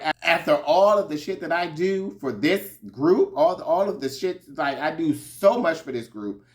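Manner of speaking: half-acted angry rant about the group; hammed-up indignant tirade; mock fuming rant. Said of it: "Karen was fuming now".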